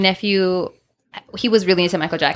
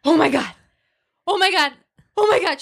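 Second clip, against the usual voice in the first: rising shocked oh my God; retold shock; 8 semitones higher than usual. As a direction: climb higher with each oh my God. Retelling shock at pregnancy test.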